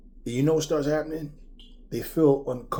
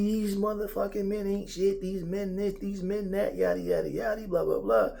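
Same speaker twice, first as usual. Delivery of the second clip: higher mocking whine about men; mocking complaint; 7 semitones higher than usual. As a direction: parody the complaint, pitched up. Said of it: "And then y'all be".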